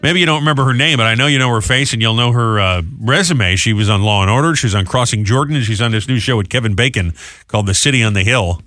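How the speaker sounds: brisk DJ rundown of the show; morning DJ previewing the day's segments; radio host read. Acted. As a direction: tease the show's lineup to listeners.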